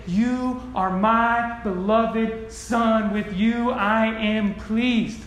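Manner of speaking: very slow, solemn divine declaration; voice of God. Pretend. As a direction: draw out each word like heaven speaking. Quoting God at baptism.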